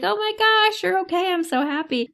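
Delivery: high-pitched, gushing mock joy; gushing relief. Owner hugging her returned cat, gushing with relief. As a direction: coo with over-the-top relief, voice way up.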